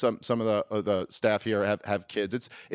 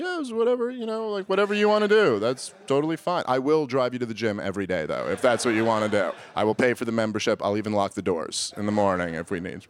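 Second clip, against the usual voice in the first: fake casual. Husband feigns casual support.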